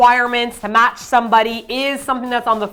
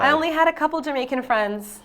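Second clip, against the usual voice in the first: put-on Jamaican accent; 4 semitones higher, 4 dB quieter than usual. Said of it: "your Jamaican accent".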